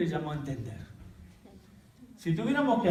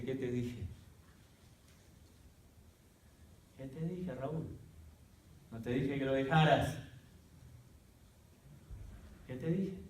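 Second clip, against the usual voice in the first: soft, hushed reproach, much softer; a gentle but insistent reminder; God's quiet rebuke; 7 dB quieter than usual. Retold or imitated. God quietly rebuking him.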